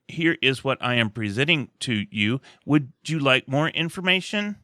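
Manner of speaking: lightly flat, mechanical read; a hint of a robotic cold caller; mock cold caller reading a script robotically. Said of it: "so static and so robotic".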